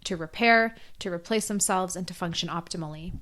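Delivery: hoarse, voice nearly gone; talking through a lost voice. Real, not acted. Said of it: "Sorry, I have lost my voice".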